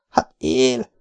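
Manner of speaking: understated joyful exclamation; a touch of relieved delight; mild elation. Acted. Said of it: "újongott fel a lány". (visszafogottan ujjongva)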